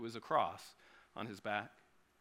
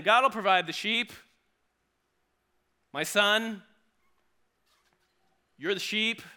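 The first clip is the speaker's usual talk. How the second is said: sinister deceiving father; 6 semitones higher, 7 dB louder than usual. Retold or imitated. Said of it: "And so he's saying".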